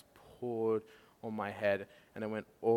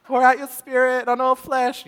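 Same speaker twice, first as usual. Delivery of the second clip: high, loud, pleading for more; fervent prayer; 14 semitones higher, 16 dB louder than usual. Retold or imitated. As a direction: plead intensely, pressing on and on. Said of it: "she's just like".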